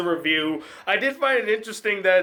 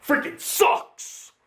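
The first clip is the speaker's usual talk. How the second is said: whisper; 8 semitones higher, much slower than usual. Acted. Verdict on the film.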